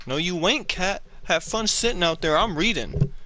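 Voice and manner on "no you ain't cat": ordinary talk, nothing marked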